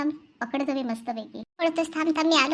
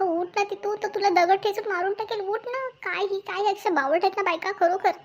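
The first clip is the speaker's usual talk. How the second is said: exasperated; 6 semitones higher than usual. Acted. Exasperated yelling at film heroine.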